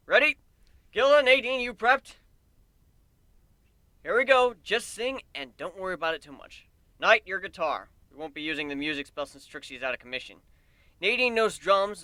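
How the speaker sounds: high, loud eager bandleader voice; rally the crew before the show; excited bandleader. Acted. Bandleader psyching up her band, high and loud. Narrator voicing main character quotes.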